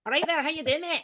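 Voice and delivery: exaggerated broad Scots hello; strong Scottish accent. Shown as a demonstration. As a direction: lay the Scottish accent on thick. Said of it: "if I speak like that".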